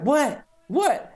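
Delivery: high-pitched imitated "what?"; puzzled, imitating a confused coworker; mock baffled. Tech confused by the laughing, high mock bafflement. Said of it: "then she's like".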